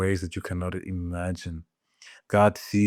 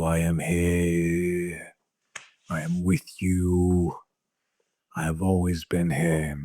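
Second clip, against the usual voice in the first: gentle inner voice; slower than usual. Acted. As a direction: speak slowly as the comforting voice within. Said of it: "a voice in your heart that tells you".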